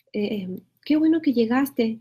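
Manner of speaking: a glad, lively welcome; joyful greeting. Shown as a demonstration. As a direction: greet a friend who just arrived. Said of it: "es como de alegría". (saludo alegre de bienvenida)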